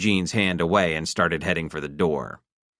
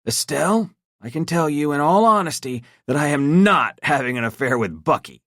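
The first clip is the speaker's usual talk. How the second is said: calm husband; 9 semitones higher, 4 dB louder than usual. A narrator's reading. Clement voiced.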